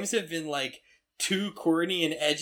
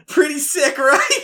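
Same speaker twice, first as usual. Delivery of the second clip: gleeful villain voice; 8 semitones higher, 8 dB louder, slower than usual. Retold or imitated. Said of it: "Jingo's just like".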